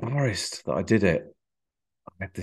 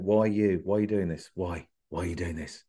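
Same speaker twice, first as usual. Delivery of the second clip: softer, fading self-questioning; inner voice; 2 semitones lower, 5 dB quieter than usual. Retold or imitated. Comedian's inner voice on stage, quietly doubting. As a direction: ask yourself quietly, almost under breath. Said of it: "I always used to go on going".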